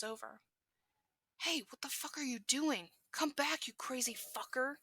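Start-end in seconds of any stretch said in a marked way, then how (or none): 1.4-4.8 put-on angry boy shouting at his friend; yelling. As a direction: bark it out, furious. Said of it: "Katsuki yells".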